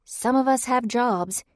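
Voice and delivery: high, slow, pointed jab; blurted out. Acted. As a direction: blurt it with a sharp edge. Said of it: "she blurted".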